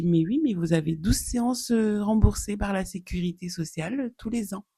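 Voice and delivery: lightly voiced doctor, pitch climbing; retold doctor. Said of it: "Et elle me dit".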